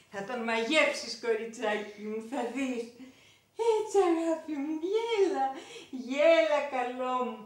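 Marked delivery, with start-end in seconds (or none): 3.7-7.4 slow doting encouragement; tender coaxing. Acted. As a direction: draw a smile out gently. Coaxing a smile, slowing.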